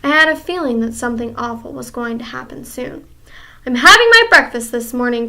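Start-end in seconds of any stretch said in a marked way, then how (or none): 3.6-5.3 loud, piercing witch's outcry; crying witch. Acted. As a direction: call out in the witch's voice. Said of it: "cried the Grand High Witch".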